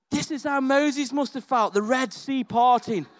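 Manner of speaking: hammed-up awe at the surgery; awestruck wonder. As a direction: gush like you saw a miracle. Awed retelling of the incision.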